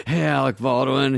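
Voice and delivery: a hint of jittery Chris Farley, both names blurted; nervous Farley greeting. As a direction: blurt the full name like a wound-up psycho. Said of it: "He calls him both names like a psycho".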